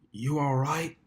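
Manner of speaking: softly concerned, lightly voiced stallion; genuine concern. A narrator's reading. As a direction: ask gently, really worried for her. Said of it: "he asked with genuine concern".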